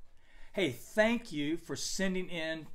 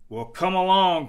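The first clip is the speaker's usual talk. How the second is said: big goat's bold, raised call; loud cry; 5 semitones higher, 7 dB louder than usual. A narrator's reading. Third goat daring the troll, crying out loudly. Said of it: "cried the third billy goat Gruff".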